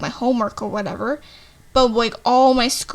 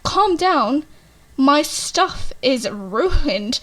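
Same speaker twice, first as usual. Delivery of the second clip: echoing their words back, pitched up in disbelief; incredulous anger; 3 semitones higher, much slower than usual. Retold or imitated. Student mocking the office staff's advice, incredulous and upset. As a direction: throw the phrase back at them, half laughing. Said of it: "So I start getting very angry".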